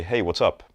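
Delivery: casual "Hey, what's up" to a friend, on one tone; "Hey, what's up" as between equals, pitch held steady; same level tone. Shown as a demonstration. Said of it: "the voice stays at the same tone".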